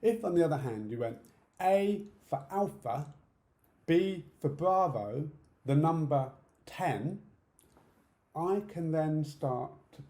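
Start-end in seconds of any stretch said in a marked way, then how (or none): 1.6-7.2 slow, deliberate phonetic spelling with pauses. Shown as a demonstration. Helping a deaf person pick up a code, slow spelling. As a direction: give each letter and code word room. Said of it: "but you slow it down a bit".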